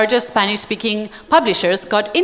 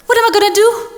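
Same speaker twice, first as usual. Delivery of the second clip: despairing inner voice; 7 semitones higher than usual. Retold or imitated. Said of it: "this is how I left the meeting".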